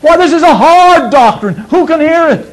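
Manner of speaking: high, loud mock complaint; murmuring disciples. Preacher mimicking murmuring disciples, hammed-up complaint.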